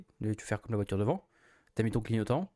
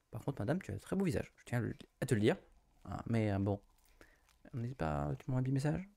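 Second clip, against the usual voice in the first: soft flirty; 5 dB quieter than usual. Acted. Flirting with the woman pictured.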